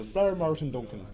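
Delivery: lightly voiced Irish accent. Shown as a demonstration. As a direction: say the name with an Irish lilt. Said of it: "Irish is pretty easy".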